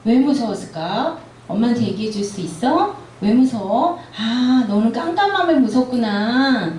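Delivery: put-on a touch of a mother soothing her child; gentle mother. Mother comforting a child afraid of the dark, gently. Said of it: "이렇게 얘기해 주시면 된다고 해요".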